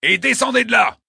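put-on loud order in a Retz accent. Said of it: "une voix qui avait l'accent du Retz".

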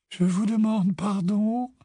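high-pitched, drawn-out indignant begging of pardon; startled questioner. A narrator's reading. A character asking Harry what he means, taken aback.

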